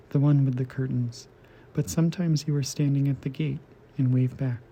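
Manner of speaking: measured poem reading with deliberate pauses; poetry reading. Acted. Host reading translated poetry to listeners, measured recital. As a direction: read it out phrase by phrase, evenly. Reads translated poems aloud.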